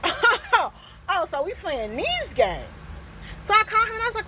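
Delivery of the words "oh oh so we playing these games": high, drawn-out stunned oh; retold shocked realization, slow and high; mock shocked realization. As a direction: act out catching on in disbelief. Realizing neighbor is spying.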